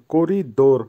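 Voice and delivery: করিডোর in two separated parts, করি then ডোর; teacher's careful model of Russian করিডোর; Russian pronunciation of করিডোর. Shown as a demonstration. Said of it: "উচ্চারণ একটু পার্থক্য হবে, একটু লক্ষ্য রেখেন".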